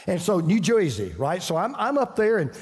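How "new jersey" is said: mock New Jersey accent, "Joisey"; Yankee accent. Preacher mimicking a Yankee airport lady, mock New Jersey accent. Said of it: "she's a Yankee".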